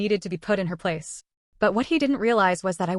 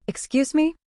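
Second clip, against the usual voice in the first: shocked; 8 semitones higher than usual. A narrator's reading. Shocked reply to accusation.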